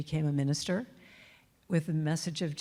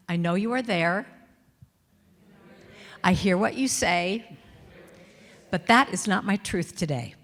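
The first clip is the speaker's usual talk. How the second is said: attitude; 5 dB louder than usual. Shown as a demonstration. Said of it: "do a little attitude".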